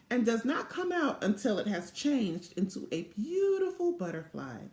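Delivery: lively storybook read-aloud voice; animated picture-book narration; reading to children. A narrator's reading.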